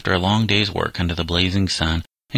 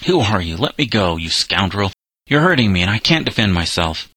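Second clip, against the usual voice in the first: frightened, raging protest, somewhat louder; a cornered boy lashing out, a touch louder; fear and rage; 3 dB louder than usual. Acted. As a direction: fight him off, crying out in fear and anger. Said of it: "with cries of fear and rage".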